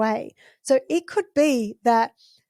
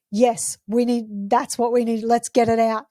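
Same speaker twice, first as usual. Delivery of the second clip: matching a tantrum. Shown as a demonstration. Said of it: "and shouting as well and roaring".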